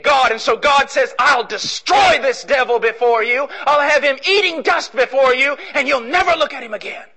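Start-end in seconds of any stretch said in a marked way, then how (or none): 1.2-7.0 God thundering a promise. Acted. God vows to the serpent, booming.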